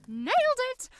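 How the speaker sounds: a high, loud, triumphant whoop. Acted. Aaron, alone in the office, cheering as the safe opens. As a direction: celebrate the cracked safe with a cheer.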